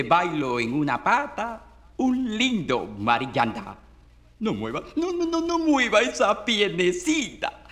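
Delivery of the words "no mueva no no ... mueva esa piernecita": put-on high-pitched fussing at a wriggling child; mock scolding, pitched up; quick string of no's, chiding the little one; playful chiding. Parent chides a wriggling child.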